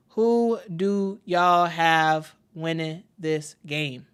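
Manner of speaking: Who do y'all have winning this game, stretched slowly; unhurried, drawn-out repeat of the question. Shown as a demonstration. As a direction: ask it again slowly to the chat.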